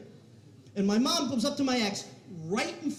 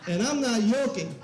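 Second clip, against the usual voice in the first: mock Cuban-accented punchline. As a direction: land it in mom's Cuban accent. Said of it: "horrible Cuban accent".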